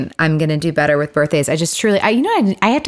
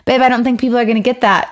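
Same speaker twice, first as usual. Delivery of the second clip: slightly higher, amateur Scottish lilt; cute Scottish accent; 4 semitones higher than usual. Retold or imitated. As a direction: imitate a boyfriend's Scottish accent badly. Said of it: "in his cute little Scottish accent".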